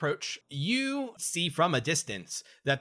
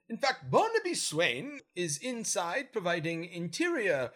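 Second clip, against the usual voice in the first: lightly voiced lady officer; a hint of the prim soldier; female Gith voice; 5 semitones higher than usual. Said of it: "Petty Officer Lenora says".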